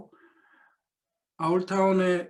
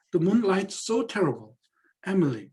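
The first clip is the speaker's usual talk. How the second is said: 1 sentimental, romantic; 3 semitones higher, much slower than usual. Acted. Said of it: "이렇게 감상적인, 낭만적인 얘기를 하는데".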